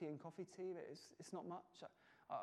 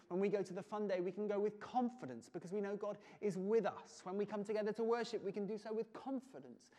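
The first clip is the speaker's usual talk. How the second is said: preaching with confidence; 4 semitones higher, 4 dB louder than usual. Real, not acted. Rising climax of sermon.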